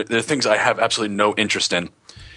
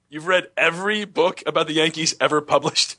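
incredulous echo; 4 semitones higher than usual. Retold or imitated. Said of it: "I'm annoyed by the statement".

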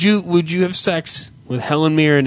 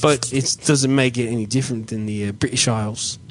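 a quiet, lower attempt at a British accent; 4 semitones lower, 4 dB quieter than usual. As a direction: put on a hesitant British accent as a joke. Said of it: "Can you do one, Ken?".

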